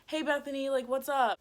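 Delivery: feigned nonchalance; playing it off. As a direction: greet as if nothing happened. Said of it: "trying to play it off".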